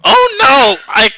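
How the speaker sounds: high, loud mock-helpless wail; badly trapped damsel act, drawn out and hammed-up; feigned struggling. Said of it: "like, struggling".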